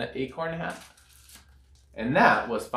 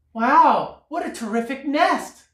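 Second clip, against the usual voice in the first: high, loud, delighted bird cry; excited bird; 11 semitones higher, 5 dB louder than usual. A narrator's reading. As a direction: gasp with delight like a little bird. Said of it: "cried the bird".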